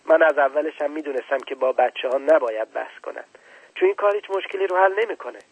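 put-on brushing the child off impatiently; dismissive old man, mildly voiced. Scientist ending the argument with the prince, impatient.

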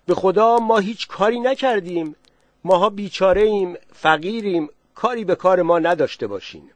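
a frightened villager calling out; loud plea. Acted. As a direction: cry out to them that you're poor and harmless. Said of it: "با صدای بلند گفت".

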